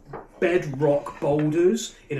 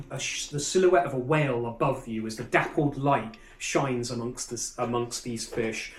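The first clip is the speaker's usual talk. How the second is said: game master narration. Acted. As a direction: paint the scene for the players. GM describes underwater market scene.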